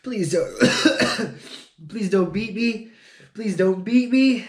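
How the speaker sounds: a hint of a whiny begging child; scared little kid. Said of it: "And he'd be like".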